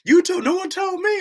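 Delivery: high, whiny complaining voice; a mock whiny fan; mocking whiny viewer. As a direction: imitate an annoyed viewer griping. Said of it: "Y'all be like".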